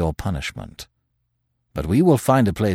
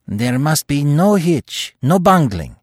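building from firm to a higher, louder, fervent pitch; carried away; 6 semitones higher, 4 dB louder than usual. A narrator's reading. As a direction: let the zeal run away with him. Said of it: "He stopped dead with flushed cheeks and kindling eyes".

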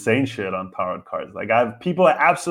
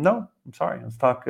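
gentle, polite no; composed, apologetic turn-down; calm refusal; 4 dB quieter than usual. Shown as a demonstration. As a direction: decline mildly without raising your voice. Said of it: "in a very calm manner".

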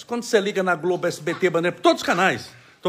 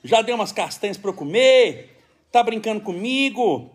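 put-on light, giggly baby voice, somewhat higher; voicing his baby son; 4 semitones higher than usual. Father voicing the baby to the live audience, lightly higher and giggly. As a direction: play the baby chatting to the viewers, amused.

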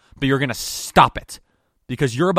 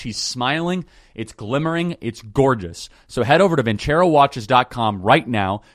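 upbeat sponsor read, punchy and selling; host ad read. Acted. Host reading a sponsor spot to listeners, upbeat ad read. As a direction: pitch the watches like a radio host.

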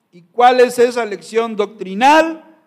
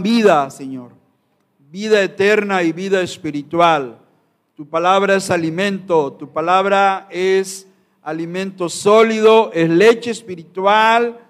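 fervent spoken prayer, pleading with God; earnest prayer. Acted. Pastor prays over his congregation before preaching, fervent prayer. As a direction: pray aloud before the congregation, with conviction.

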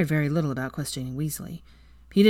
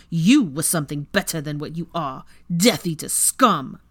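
Weasley snarls at Draco, louder as he goes; angry snarl; 4 dB louder than usual. Acted. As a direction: snarl every word with hatred. Weasley's hate-filled rant.

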